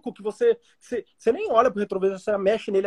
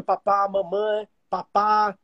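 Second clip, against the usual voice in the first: put-on slow, halting toddler first words; baby first words; much slower than usual. Baby saying first words, slow and halting. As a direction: sound out each word like a baby learning.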